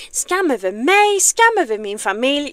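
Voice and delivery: loud theatrical curse in Swedish; Mushu in Swedish. Acted. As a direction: proclaim the shame like a dramatic dragon. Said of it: "Mushu's monologue from Disney, but in Swedish".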